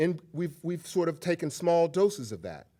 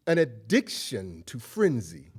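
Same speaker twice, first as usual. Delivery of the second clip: slow, weighty phrase; 4 semitones lower, slower than usual. Shown as a demonstration. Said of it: "What do I mean by an addiction to frenzy".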